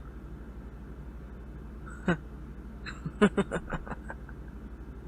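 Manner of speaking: a short huff, then a scornful little laugh; scoffing laugh. Acted. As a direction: chuckle quietly at the captor. Prisoner scoffs at captor's motives.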